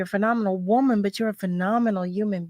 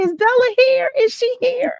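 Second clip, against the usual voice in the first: much higher, louder, calling out excitedly for Bella; eager calling out; 14 semitones higher, 6 dB louder than usual. Pretend. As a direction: pretend she's looking around the room for her guest, thrilled. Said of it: "I'm gonna say".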